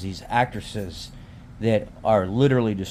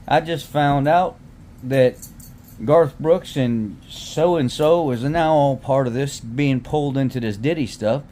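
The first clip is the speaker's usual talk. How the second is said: put-on light Southern US accent; 2 semitones higher than usual. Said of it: "he's got a real southern accent".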